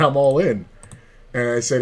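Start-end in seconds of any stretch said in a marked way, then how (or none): 0.0-0.6 repeating it louder and firmer. Retold or imitated. Repeating his all-in louder to the stunned old man. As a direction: say it again, pushing the volume up.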